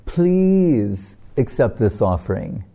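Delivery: long drawn-out please, no real tears; mock-tearful, slow entreaty; tearful pleading, imitated. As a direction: beg the deity with a stretched PLEASE. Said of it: "pleading with the deity and crying".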